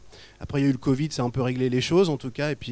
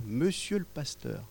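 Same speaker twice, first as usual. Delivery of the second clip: a timid little voice, slow and soft; shy, hesitant and softer; small voice; 3 semitones higher, 6 dB quieter, slower than usual. Retold or imitated. Stranger timidly addressing the pastor, small soft voice. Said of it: "me dit d'une petite voix".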